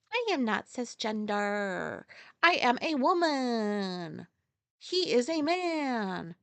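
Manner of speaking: slow, deadpan mock repeat; replaying the clip for viewers, slow mocking; mocking quote again. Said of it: "this fucking pube sitting there like".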